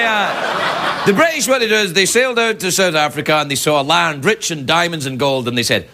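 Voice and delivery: normal talking voice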